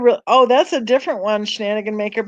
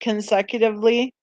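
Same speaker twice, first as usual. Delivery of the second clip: talking through a yawn. Real, not acted. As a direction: say it mid-yawn. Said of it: "I am yawning kind of".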